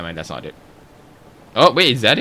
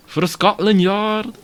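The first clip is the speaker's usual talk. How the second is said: British detective cry; 10 semitones higher, 3 dB louder, slower than usual. Acted. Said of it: "butchering every single accent".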